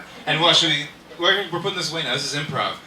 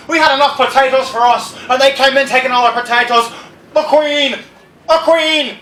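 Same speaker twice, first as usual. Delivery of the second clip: mock furious rant; 8 semitones higher, 11 dB louder than usual. Comic rant against the Queen.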